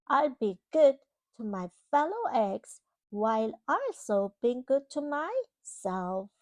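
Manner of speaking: put-on storybook reading to a child; reading to children. Parent reading a storybook to a child, gently. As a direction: read it like a bedtime picture book. Reading picture book aloud.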